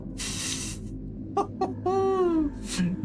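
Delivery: high, hooting laugh; high-pitched laugh. Real, not acted. Player reacting to a possible Sectopod, high hooting laugh. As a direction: laugh up high in a run of hoots.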